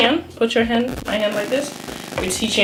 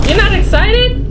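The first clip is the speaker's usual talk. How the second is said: high, louder teasing question; teasing disbelief; 13 semitones higher, 6 dB louder than usual. Real, not acted. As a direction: tease her with disbelief. Teasing disbelief, much higher.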